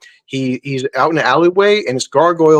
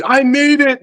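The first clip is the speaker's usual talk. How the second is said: high-pitched, gloating imitation of a survivor; mock triumphant cry; 12 semitones higher, slower than usual. Fan retelling the raft scene to co-hosts, mock triumph. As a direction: crow it like you've escaped.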